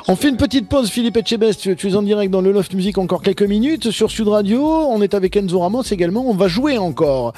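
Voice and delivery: upbeat radio host voice, easing down at the end; radio host announcement. Acted. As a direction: announce the break to listeners. Annonce radio avant la pause. (annonce d'animateur radio)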